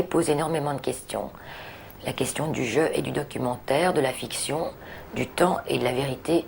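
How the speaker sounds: understated read-aloud, phrase by phrase. Real, not acted. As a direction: read out a written personal essay in measured phrases. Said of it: "je vais donc, euh, les lire". (lecture à voix haute, posée)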